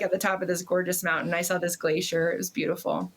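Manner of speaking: ordinary talk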